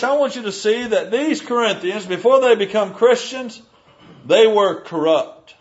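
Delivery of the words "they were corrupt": slow, weighted landing on "corrupt"; stress on corrupt. Real, not acted. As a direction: say it slowly, leaning on "corrupt". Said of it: "Emphasis on corrupt".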